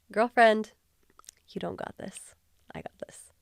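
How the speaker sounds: hushed knowing voice of God; God speaking. Retold or imitated. God gently correcting the proud speaker, hushed. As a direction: whisper it like God setting her straight. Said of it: "God was like".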